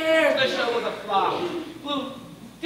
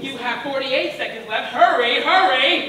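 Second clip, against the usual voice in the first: urging; 4 dB louder than usual. Acted. Hurrying him against a countdown.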